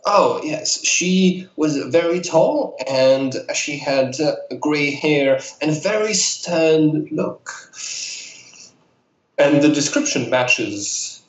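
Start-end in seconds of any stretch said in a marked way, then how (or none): 0.1-7.5 put-on old lady voice. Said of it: "I love your old lady voice".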